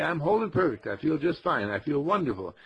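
bright, confident declaration; upbeat affirmation. Shown as a demonstration. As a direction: say it like you mean every word.

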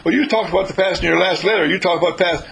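imitating a triumphant retort; quick retort. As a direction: catch him out on his own words. Joseph retorts, catching him out.

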